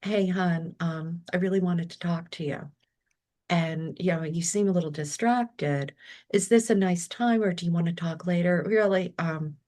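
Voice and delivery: loving. Retold or imitated. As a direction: ease into it tenderly, as if not to startle him. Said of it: "a loving way".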